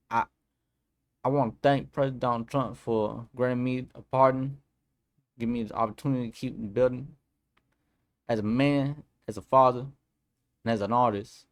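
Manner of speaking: lightly put-on rapper voice, halting pauses between phrases; a rapper. Vlogger quoting a rapper's pardon statement, lightly voiced impression. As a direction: read it as a rapper's quote, in short breaks. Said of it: "read in my best rapper voice".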